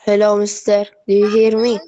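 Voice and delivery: loud call down a bad line. Real, not acted. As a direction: raise voice to reach the teacher. Calling out over bad line.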